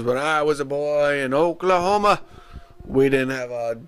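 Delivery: lightly put-on country storyteller; John. John telling his Oklahoma life story, mock folksy. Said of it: "John tells us his life story. Says".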